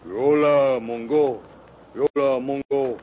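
booming caveman chant; dopey cartoon bellow. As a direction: bellow it like a dim brute. Savage chief names himself.

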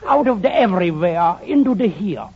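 hammed-up German accent; mock-grand line in a German accent. Man dodging where he comes from, German accent. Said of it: "where did you get that German accent".

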